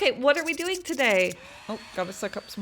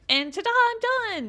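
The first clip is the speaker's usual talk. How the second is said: ta-da, pitched way up in triumph; triumphant ta-da; 13 semitones higher, 3 dB louder than usual. Real, not acted. Crafter revealing her finished teapot, triumphant. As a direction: show off the finished piece.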